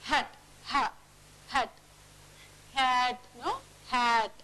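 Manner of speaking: "Hat" with a long breathy H; prolonged H. Shown as a demonstration. Teacher modelling prolongables, H drawn out. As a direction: stretch the H of "Hat". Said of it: "We are just prolonging it".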